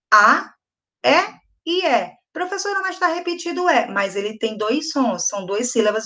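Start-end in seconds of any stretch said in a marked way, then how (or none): 2.3-3.9 lightly voiced pupil, higher and quick; pupil's objection. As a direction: pipe up quickly to the teacher.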